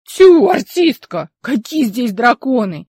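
mock her like a silly actress; a drawn-out teasing jeer at the girl's dragon talk; scoffing. Old man scoffs at Polina's fantasy.

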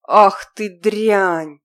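loud, slow furious yell. Acted. Bitten captor yelling at the girl in fury. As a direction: bite out the insult after the bite. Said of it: "вскрикнул парень".

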